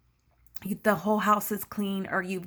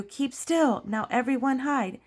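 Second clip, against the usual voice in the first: lightly voiced pig, pitched higher; Pig Two; 5 semitones higher than usual. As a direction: urge the others to hide, raised pitch. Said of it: "Then Pig Two".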